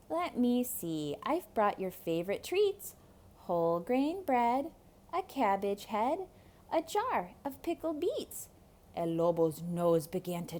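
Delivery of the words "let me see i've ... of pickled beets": put-on higher cheerful boy. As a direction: list it like an eager kid. Boy Rico.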